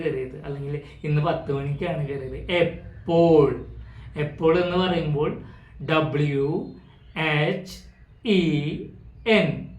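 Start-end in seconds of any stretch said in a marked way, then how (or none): 5.9-9.7 slow spelling. Shown as a demonstration. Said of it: "വ് എന്ന് ഉച്ചരിച്ചു".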